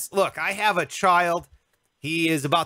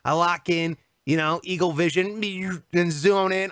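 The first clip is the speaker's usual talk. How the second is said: ordinary delivery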